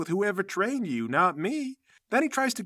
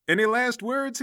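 villain taunt; 7 semitones higher, 3 dB louder than usual. Acted. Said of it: "he says".

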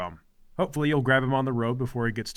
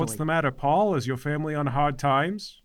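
a hint of a bossy, whiny mother; lightly voiced overbearing mom; nagging mother; 4 semitones higher, 5 dB louder than usual. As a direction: play the domineering mother scolding her son. Mother complains to Galahad.

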